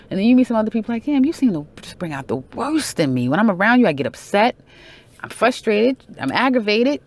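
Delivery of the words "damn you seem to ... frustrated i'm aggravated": higher-pitched, exasperated venting; a hammed-up fed-up complaint; mock frustrated rant. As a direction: vent like they drive you up the wall. Quoting frustrated self about toxic person.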